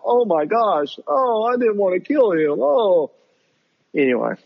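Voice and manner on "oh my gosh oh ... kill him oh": mock whiny. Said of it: "They wouldn't talk about".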